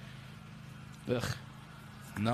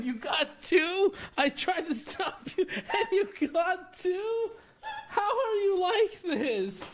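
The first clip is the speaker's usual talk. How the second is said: laughing disbelief; 4 semitones higher, slower than usual. Real, not acted. Friend grabbed two snacks.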